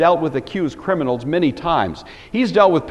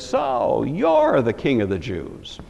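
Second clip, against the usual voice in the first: drawn-out, mocking question; sarcastic; 4 dB quieter, slower than usual. Shown as a demonstration. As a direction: sneer at those who brought him. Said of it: "hear it with this tone of voice".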